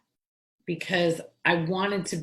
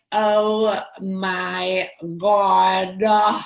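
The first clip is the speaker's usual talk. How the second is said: drawn-out Long Island "Oh my God"; teen coming home in a New York accent; 6 dB louder, much slower than usual. Retold or imitated. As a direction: stretch it slow in a thick New York accent. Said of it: "I would come home like".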